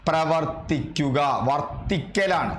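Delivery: പ്രവർത്തിക്കുക said slowly, syllable by syllable; slow it down so students note വർത്തിക്കൽ; slow teaching emphasis. Shown as a demonstration. Teacher to students, spelling out the verb slowly. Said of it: "എന്നിങ്ങനെ എഴുതരുത്".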